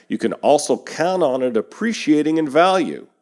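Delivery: upbeat sales-pitch read. Acted. Host pitching the property of the week to buyers, ad read. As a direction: sell the domain like a sponsor spot.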